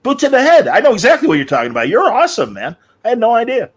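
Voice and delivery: high, loud, fast excited fanboy gush. Retold or imitated. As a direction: squeal it like a starstruck fan. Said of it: "And I'm like".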